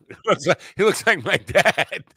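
high, squeaky mock echo of co-host; put-on high mimicking voice. Mimics co-host's line just said.

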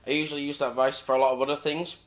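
talking through hiccups; hiccuping between words. Real, not acted. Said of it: "I've got the hiccups now".

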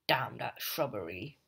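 hushed whispered curse. Retold or imitated. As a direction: breathe it out under your breath. Norman Osborn muttered line.

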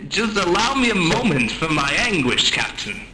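mock anguish. Mock-tragic speech of wounded anguish.

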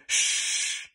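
sharp whispered shush; urgent whispered hush; hissed shush. Acted. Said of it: "hissed Amber".

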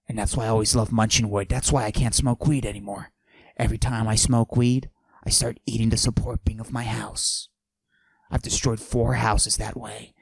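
macho voice pushed down, held the whole bit; forced deep voice. Acted. Comic bragging to the audience in a forced deep voice. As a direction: fake a deep tough-guy voice. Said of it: "I deepen my voice like this".

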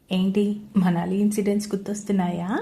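teasing. Acted. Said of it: "అడిగాడు దేవ్ అల్లరిగా".

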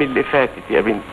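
low, quiet, choked-up pleading; a grandfather fighting back tears; tearful plea. Acted. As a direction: beg forgiveness through held-back tears. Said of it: "أنت بتعيط يا جدي".

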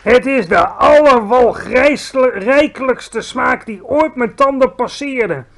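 high, loud scornful giant; ranting giant. A narrator's reading. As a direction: sneer at the vegetarian giant. Bloodbottler ranting. (schimpende reus, hoog en luid)

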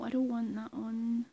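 ordinary talk, nothing marked

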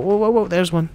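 high, loud sudden whoas; excited spotting. Real, not acted. Spotting a lily during the timed event, excited high whoas. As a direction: burst out on seeing a lily.

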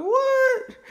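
high, loud, disbelieving squeak; shocked what. Retold or imitated. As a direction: shriek it in pure disbelief. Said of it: "I was like".

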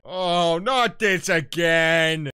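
loud, high, slow dragged-out wail; exasperated yell. Real, not acted. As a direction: groan it out loud in disbelief. Exasperated at recurring mod scene.

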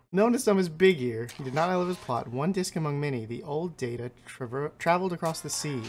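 a hint of ancient, pleased beings; slightly grand creature voice, savoring the pelts; lightly voiced pelt-hungry creatures. Creatures greeting the trapper who brings pelts, lightly grand. Voices game scribes' text.

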